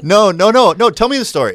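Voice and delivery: high, loud pleading with a laugh; laughing, over-keen encouragement; mock eager insisting. Acting out insisting to drunk woman.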